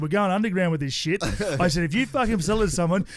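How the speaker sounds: put-on rally the kid like a co-conspirator, pumped up; defiant loud rant. Dad retells defiant reply to daughter.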